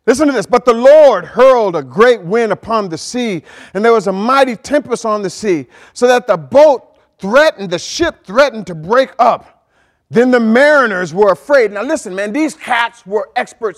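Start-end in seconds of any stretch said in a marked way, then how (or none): 0.5-11.7 emphatic pulpit reading; scripture reading. Acted. Preacher reading Jonah to the congregation, emphatic scripture reading. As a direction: read the verse out firmly, weighting key words.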